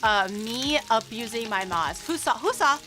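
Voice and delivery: loud, insistent ranting at an audience; playful rage. Pretend. Streamer challenges chat over mod-abuse claim, playful rage. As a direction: demand witnesses loudly, pitch pushed up. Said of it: "I'm getting rage rated again".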